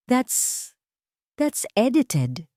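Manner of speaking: breathless, halting and slow; a cornered woman denying the footage, shaken; flustered denial. Acted. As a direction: stammer it out, caught off guard. Dayang caught, denying.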